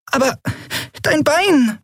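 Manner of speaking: little Nelen squeaking in worry about the wound; squeaky. Acted. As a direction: peep it out like a worried child. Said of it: "piepste Nelen".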